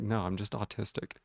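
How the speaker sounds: flat, matter-of-fact reply; deadpan. Retold or imitated. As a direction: say it totally straight-faced. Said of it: "In, like, complete deadpan".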